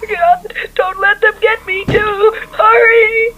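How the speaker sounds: rising panic, begging; panicked. Acted. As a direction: beg for help as the door breaks. Intruders breaking door down.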